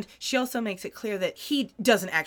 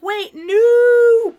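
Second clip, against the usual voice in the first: panicked shout; 12 dB louder than usual. Retold or imitated. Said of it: "And she's like".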